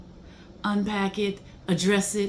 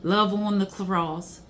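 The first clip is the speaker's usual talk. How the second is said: slow, tender reading of song words; reverent lyric reading; slower than usual. Acted. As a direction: let each line land slowly, like a prayer. Reads song lyrics slowly.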